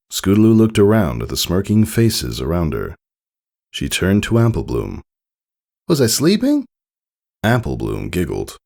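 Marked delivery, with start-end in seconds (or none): 5.9-6.7 groggy surprise. Acted. Just woken, asking friend.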